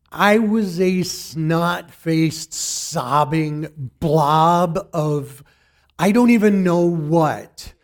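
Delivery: choked up, slow and teary; tearing up. Real, not acted. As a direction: voice thick with real tears. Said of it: "you can see I'm tearing up now".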